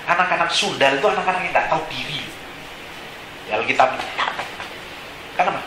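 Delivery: ordinary delivery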